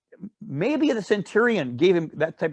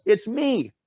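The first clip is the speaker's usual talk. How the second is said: calling out; 6 semitones higher than usual. Retold or imitated. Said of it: "He's yelling".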